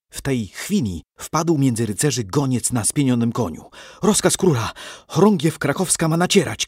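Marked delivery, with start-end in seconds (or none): 4.0-6.7 high herald's cry; shouted order. A narrator's reading. Messenger bringing the king's order to knights, shouting high. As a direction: proclaim the order to the troops. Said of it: "krzyknął".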